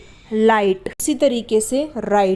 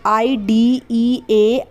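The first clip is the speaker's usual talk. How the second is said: slow spelling; much slower than usual. Shown as a demonstration. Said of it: "teacher spells example word".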